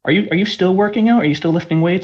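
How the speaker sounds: out of breath after rushing rooms. Real, not acted. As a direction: talk while catching your breath. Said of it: "Sorry, I'm just catching my breath".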